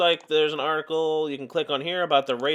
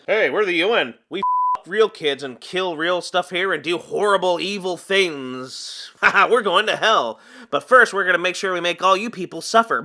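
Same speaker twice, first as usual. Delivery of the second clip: villain voice; 3 dB louder than usual. Retold or imitated. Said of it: "That's basically what they do".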